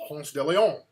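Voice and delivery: Ponce de Leon as "PONS deh lee-OHN"; correct pronunciation. Shown as a demonstration. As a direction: say Ponce de Leon carefully in the Spanish-derived way. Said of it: "So the correct pronunciation is".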